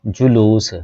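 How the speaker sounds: जुलूस as ju-loos, long second vowel; correct pronunciation demo. Shown as a demonstration. Teacher giving the right form, careful demo of जुलूस as ju-loos. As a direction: carefully sound out जुलूस with short u, then long oo. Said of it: "सही तलफ़ुज़ उसका".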